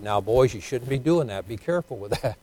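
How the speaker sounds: mildly scolding, half-hearted; lightly voiced lax father, soft and mild; weak soft scolding. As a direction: tell the boys off too gently. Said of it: "he probably said".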